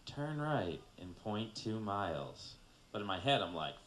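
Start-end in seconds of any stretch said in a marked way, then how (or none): 0.0-2.6 slow, measured navigation prompt; a hint of sat-nav delivery; GPS voice. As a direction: lightly imitate a GPS giving directions. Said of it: "one of those annoying-ass G P S's".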